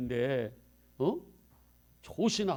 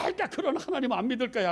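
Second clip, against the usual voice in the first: higher, fast scoffing brush-off; mock dismissive refusal; 9 semitones higher, 4 dB louder, faster than usual. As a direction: toss it away like a sulking believer. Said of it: "하고 막 뿌리치고 욕하면서". (투덜대며 거부하는 말투)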